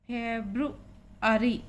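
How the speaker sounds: फेब्रुअरी said slowly with the b and r joined; careful pronunciation. Shown as a demonstration. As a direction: slowly say फेब्रुअरी, b-r together as ब्रु. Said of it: "बी आर का उच्चारण इकट्ठा". (धीरे से फेब्रुअरी, बी आर इकट्ठा)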